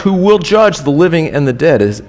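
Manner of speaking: measured pulpit reading of scripture. Acted. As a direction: read it like a solemn charge. Reads scripture aloud.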